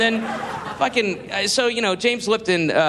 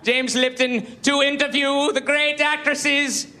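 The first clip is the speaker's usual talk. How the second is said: mock James Lipton; 4 semitones higher than usual. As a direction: puff yourself up like a vain host at the podium. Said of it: "and he's going".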